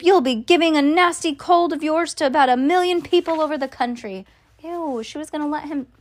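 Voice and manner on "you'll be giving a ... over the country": high-pitched scolding; mild shout. A narrator's reading. Mother warns her son about his cold, mildly shouted scolding. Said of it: "shouted Missus Gloop".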